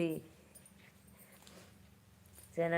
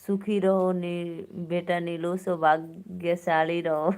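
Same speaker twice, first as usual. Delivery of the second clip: slow, louder, lightly voiced blessing aunty; 5 dB louder, slower than usual. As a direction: drawl the blessing like an old aunty, slow and loud. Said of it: "हम कोई aunty वांटी नहीं है बहनी".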